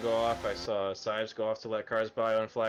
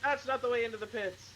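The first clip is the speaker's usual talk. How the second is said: amazed; 12 semitones higher than usual. Real, not acted. Reacting to wrong-way car.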